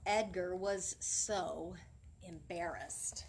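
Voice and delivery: slow, fading into a whisper; slow sinking whisper; embarrassed whisper. Acted. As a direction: drop to a hushed whisper for the shame. Narrating Edgar's shame.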